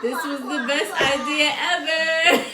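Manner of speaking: slow, dreamy mock delight; floating bliss. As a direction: drift through it, drawing out the words. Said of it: "I started floating".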